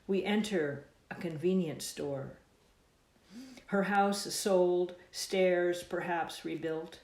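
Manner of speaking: slow, deliberate poem recital; measured lines, each image given room; poetry reading. Acted. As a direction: read your poem aloud, unhurried. Reads own poem aloud.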